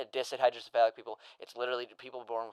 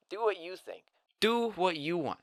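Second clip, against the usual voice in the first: whispered advice; 6 semitones higher than usual. Acted. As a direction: whisper it like a secret. Advice after mocking doubts.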